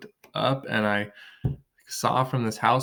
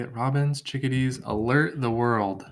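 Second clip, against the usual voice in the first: reading a poem line. Shown as a demonstration. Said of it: "So I'm gonna say".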